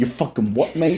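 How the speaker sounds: fake, clumsy, bad British accent. Voicing a Candyman action figure on a podcast, bad British accent. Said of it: "That's his British origins".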